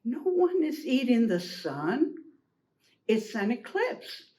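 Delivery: unhurried, soothing reassurance; soft, gentle, easy. Acted. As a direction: reassure the frightened animals gently. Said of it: "a soft, gentle, easy voice".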